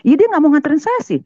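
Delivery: fast, high indignant retort; membela diri kesal. Retold or imitated. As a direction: fire back an excuse, high and quick. Wife retorts to shocked neighbours. (bantahan cepat bernada tinggi)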